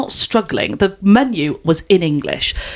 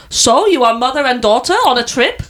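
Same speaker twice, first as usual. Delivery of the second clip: curious question in a mock German accent; put-on German accent, a little higher; 4 semitones higher than usual. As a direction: imitate a German woman asking innocently. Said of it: "I'm gonna do the accent".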